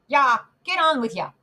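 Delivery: rough coachman urging horses on. Acted. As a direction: drive the horses on with a gruff shout.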